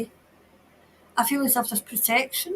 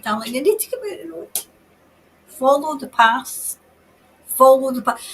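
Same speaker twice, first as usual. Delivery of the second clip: louder calling to the lost woman; urgent guiding call; 6 dB louder than usual. Acted. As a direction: call her toward the path. Medium calls to missing woman.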